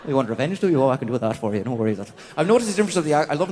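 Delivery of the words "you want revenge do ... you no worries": put-on Northern Irish accent. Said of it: "a Northern Irish person".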